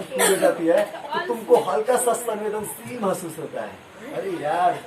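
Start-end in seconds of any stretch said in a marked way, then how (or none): 4.1-4.8 low, drawn-out mock reluctant realisation; mild mock urgency. Teacher acting out needing the toilet, mildly urgent. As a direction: lightly act out feeling the urge, slow and low. Acts out feeling the urge.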